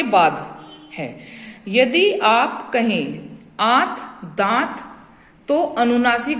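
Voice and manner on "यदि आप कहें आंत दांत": आंत and दांत slowly, the आ nasalized; nasal word demo. Shown as a demonstration. Teacher contrasts आंत and दांत for pupils, slow nasal demo. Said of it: "बोलते समय".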